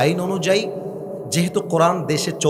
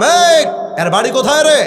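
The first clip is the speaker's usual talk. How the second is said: angry shout; 11 semitones higher, 8 dB louder than usual. Retold or imitated. Challenging a local thug.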